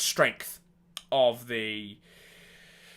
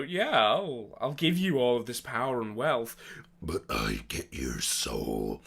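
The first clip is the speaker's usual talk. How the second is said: the Dealer; 4 dB quieter, slower than usual. Acted. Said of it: "the city Barley was called the Dealer, and he leaned a lot into".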